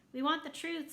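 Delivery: loud, high crowd shout; calling out. A narrator's reading. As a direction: yell it from the back of the hall. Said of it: "someone called out".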